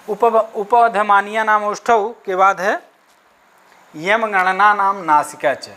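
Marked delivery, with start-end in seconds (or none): 3.9-5.7 slow chanted sutra recital; teacher chanting a grammar sutra; sutra recitation. Shown as a demonstration. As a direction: intone the Sanskrit rule slowly.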